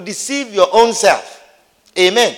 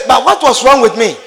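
mock dismay; 5 semitones higher, 5 dB louder than usual. Preacher reacts the shopper again.

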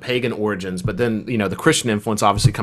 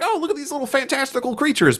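high, airy voice of wide-eyed wonder; mock wonder. Mocking people who coo over cute creatures, high-pitched. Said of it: "people are just like".

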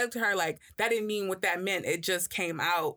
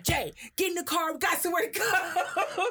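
much higher impatient retold order; mock bark; 11 semitones higher than usual. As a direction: order her into the car, laughing. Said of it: "I'm like".

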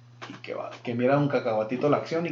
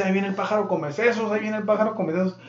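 higher, fast yelled alarm; shouted warning; 5 semitones higher, faster than usual. Acted. Castaway yells to the stranger, alarmed shout. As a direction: call out the warning across the beach. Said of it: "le grita".

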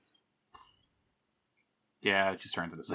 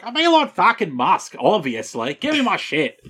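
demanding shout; 8 semitones higher, 5 dB louder than usual. Retold or imitated. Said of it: "he's like".

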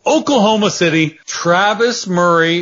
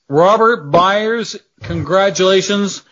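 announcer congratulations; 3 semitones higher than usual. Acted. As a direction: announce the winner with fanfare. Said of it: "I can't say I'm happy".

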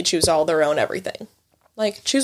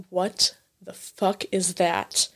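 shocked mom; 3 semitones lower, 5 dB quieter, much slower than usual. Retold or imitated. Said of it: "and my mom's like".

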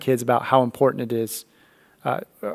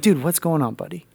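gentle; 3 semitones higher, 4 dB quieter than usual. Retold or imitated. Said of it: "That melts my heart".

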